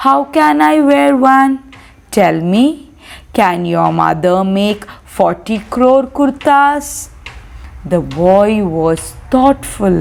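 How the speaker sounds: measured read-aloud with pauses between phrases; story reading. A narrator's reading. Teacher reading Bapu's question to students, measured story narration. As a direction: read the dialogue out carefully for a class.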